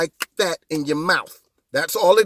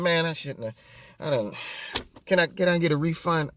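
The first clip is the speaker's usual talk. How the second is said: mock buyer's remorse; 2 semitones lower, 7 dB quieter than usual. Host pretending he regrets his vote, mock sheepish. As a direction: play a sheepish customer softly asking for money back.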